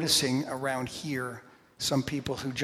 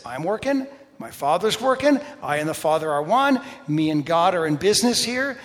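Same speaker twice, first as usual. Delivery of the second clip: louder and higher, building; emphatic preaching; 3 semitones higher, 7 dB louder than usual. Acted. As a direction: declare it with rising force. Preaching Jesus' words emphatically.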